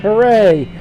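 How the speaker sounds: high excited doll hooray; talking doll cheer. Acted. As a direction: squeal it like a happy toy. Doll cheering in game text.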